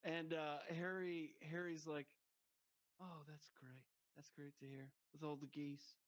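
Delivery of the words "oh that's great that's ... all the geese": soft deadpan, dripping irony; understated sarcastic boss; mock sarcasm. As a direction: murmur it with dry scorn. Imitating sarcastic boss Harry.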